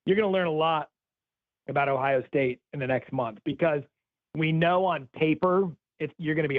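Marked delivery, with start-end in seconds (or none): none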